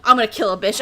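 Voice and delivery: loud mock threat; retold fury. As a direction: act out being fed up and ready to fight. Retold fury at the same guys.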